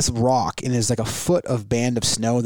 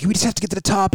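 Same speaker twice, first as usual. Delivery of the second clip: mild retold yell, pitched much higher; imitated yell over wind; 8 semitones higher, faster than usual. Dad calling to son on the windy summit, mock yell. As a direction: call out high, without full volume. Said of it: "like, you're yelling because the wind is ripping".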